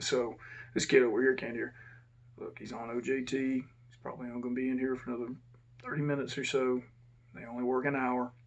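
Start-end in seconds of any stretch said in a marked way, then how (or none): 2.4-8.3 quiet. Retold or imitated. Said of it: "but I'm talking quiet".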